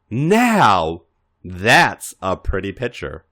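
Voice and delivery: slow, savoring purr of desire; lightly lustful, drawn-out compliment. Acted. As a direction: linger on it like he wants him. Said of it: "Chris said lustfully".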